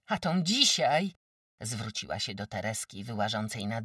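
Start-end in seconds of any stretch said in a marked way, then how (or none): 0.1-1.1 high, loud furious accusation; angry yell. Acted. Wójt's wife accusing Tereska's mother, furious yell. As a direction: scream the charge at her. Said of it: "wrzasnęła".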